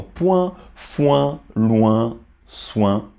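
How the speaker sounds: point, foin, loin, soin with a w-glide into a nasal; spaced-out model of nasal point, foin, loin, soin; nasal vowel. Shown as a demonstration. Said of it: "ça devient alors une nasale également".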